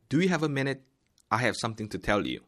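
slow, clear textbook dialogue read; careful English lesson read-aloud. Shown as a demonstration. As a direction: read it out slowly for learners. Reading dialogue role A slowly.

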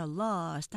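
"lost" as one long syllable with a light st; English "lost" with no added vowel. Shown as a demonstration. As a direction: stretch the vowel of "lost", keep st very small. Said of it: "하나의 음절로 발음하시고요".

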